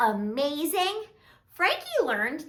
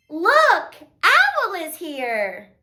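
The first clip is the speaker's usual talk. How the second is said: pretend amazement; 4 dB louder, much slower than usual. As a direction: show the kids a magical arrival. Owl magically arrives.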